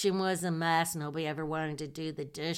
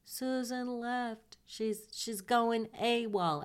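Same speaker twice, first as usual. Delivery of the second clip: upset roommate; 6 semitones higher, slower than usual. Retold or imitated. Voicing crying roommate Cindy.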